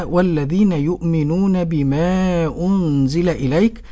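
measured, drawn-out Quran quotation; slow verse quotation. Acted. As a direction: quote the verse slowly, holding the long vowels. Host quotes the verse slowly. (تلاوة متأنية بمدود طويلة)

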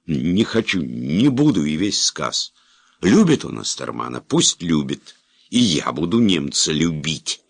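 high, loud desperate ranting; hysterical outburst. Acted. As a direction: pour it all out, near breaking. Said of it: "истерично устало завопил".

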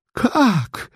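shriek. Acted. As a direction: shriek it in outrage. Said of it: "взвизгнула она". (визг, намного выше)

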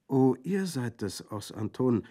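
put-on a girl caught singing, mildly startled; startled child. A narrator's reading. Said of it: "rief etwas erschrocken das Kind".

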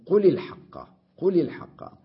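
قل الحق said loud with قل stressed; loud teaching demo of قل الحق; emphatic demo. Shown as a demonstration. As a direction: hit قل firmly with a short u. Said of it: "قلت".

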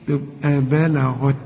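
slow بلغت with a clear غين; correct pronunciation. Shown as a demonstration. Teacher showing student the right غين, slow. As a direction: draw out بلغت, gh sound firm. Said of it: "حط لي بدل العين غين".

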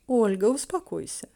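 gentle, soothing reassurance; calm her down kindly. Acted. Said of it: "Её голос прозвучал очень доброжелательно".

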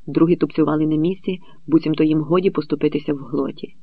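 plain reading voice

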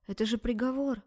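ordinary delivery, nothing marked

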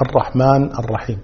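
الرحمن الرحيم as "ar-rahman ar-rahim"; silent final nun. Shown as a demonstration. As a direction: drop the i after الرحمن. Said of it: "ما يصلح". (الرحمن بنون ساكنة)

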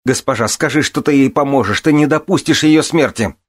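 high-pitched desperate begging; horrified plea. A narrator's reading. Son begging the lady to save his mother, horrified. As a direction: plead urgently, rising to a loud cry. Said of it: "лицо исказилось от ужаса".

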